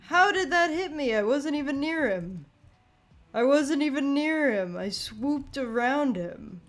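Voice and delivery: loud, high outraged complaint; raging gamer. Real, not acted. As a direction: protest the unfair hit loudly. Outraged at unfair hit.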